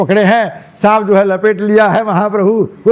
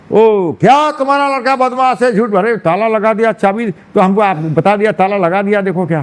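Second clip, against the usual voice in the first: annoyed complaint; 3 semitones higher than usual. Acted. Angry sannyasi scolds the parents.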